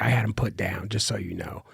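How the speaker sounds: quiet, dropping to a whisper; hushed retold gloat; fading to a whisper. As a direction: let it sink to a whisper. Retold call from the owner.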